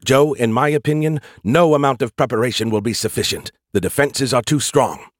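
urgent AI voice. Acted. AI character Skippy speaking.

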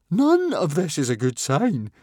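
high, loud frightened wail; shivering fear. A narrator's reading. Fishlegs to fellow captives, high shivery alarm. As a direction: blurt it out in high, shivery panic. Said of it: "shivered Fishlegs".

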